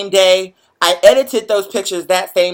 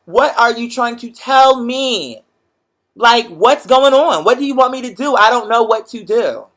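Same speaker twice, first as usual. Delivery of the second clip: pleading with the universe; 3 semitones higher than usual. Retold or imitated. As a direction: ask the universe what it wants from you. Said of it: "upset with the universe".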